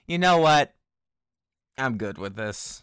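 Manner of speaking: loud then whispered shrug; unbothered millennial. Pretend. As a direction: give up cheerfully, then whisper. Millennial in horror movie quote.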